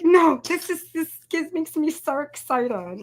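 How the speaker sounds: high, bubbly retold excitement; excited. Retelling gushing to assistant about design, high and bubbly. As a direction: gush to the assistant. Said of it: "I was like".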